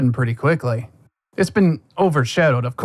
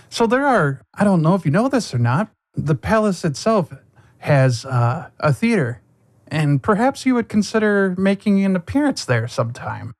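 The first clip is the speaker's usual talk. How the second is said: nobleman voice; 6 semitones higher than usual. Acted. Nobleman invites to theater.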